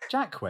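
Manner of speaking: Jacques misread as "JACK-wez"; mispronounced Jacques. Retold or imitated. Friend misreading the new guy's name, Jacques as "JACK-wez". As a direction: sound the end of Jacques as "-wez". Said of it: "Emily was like".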